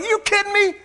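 high mock disbelief. Boy hearing the Coca-Cola ban, high disbelief. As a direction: repeat it, still stunned. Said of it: "I'm like".

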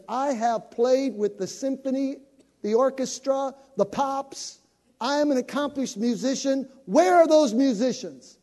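loud, high, pushy demand; imitating a pushy older lady; aggressive older lady. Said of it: "She was real aggressive".

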